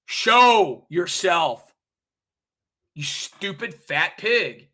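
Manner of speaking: very slow, drawn-out taunt. Real, not acted. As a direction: drag every word out with contempt. Taunting absent woman.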